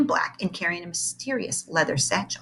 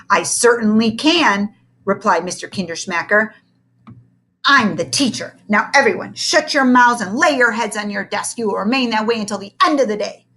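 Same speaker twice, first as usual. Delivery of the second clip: stern teacher; 3 semitones higher, 5 dB louder than usual. Acted. Tyrant teacher orders.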